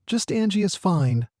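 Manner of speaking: warm smile. A narrator's reading. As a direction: put the child at ease with a smile. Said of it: "she said with a warm smile".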